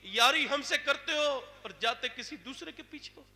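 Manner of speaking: booming divine voice. Acted. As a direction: call it out like heaven rebuking. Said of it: "آواز آئی".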